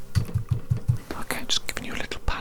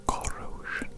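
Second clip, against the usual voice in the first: soft whisper; slower than usual. Acted. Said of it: "I'm going to whisper some words very softly".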